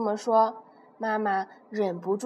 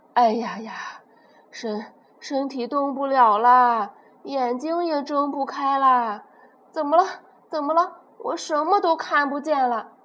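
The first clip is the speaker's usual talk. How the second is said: sad T-rex. Acted. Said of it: "霸王龙很伤心地说".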